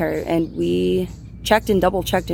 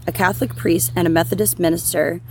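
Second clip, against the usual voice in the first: measured, scripted storytelling read; true-crime narration. A narrator's reading. Host telling listeners about the unsolved barrel case, scripted narration. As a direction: narrate the case in an even, deliberate voice.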